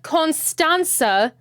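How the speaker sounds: Constanza sounded out slowly; slow, deliberate Constanza; careful pronunciation. Shown as a demonstration. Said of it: "They pronounce it".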